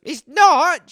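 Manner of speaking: put-on high, loud shocked kid; four-year-old child. Little boy learns Santa isn't real, shocked. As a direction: react like a stunned small child. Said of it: "four years old".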